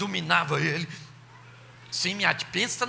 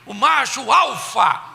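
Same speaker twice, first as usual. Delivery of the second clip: slow shouted proclamation, pitched up; proclaimed; 3 semitones higher, 6 dB louder, slower than usual. Acted. Preacher shouting to the congregation, slow and loud. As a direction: belt it out slowly.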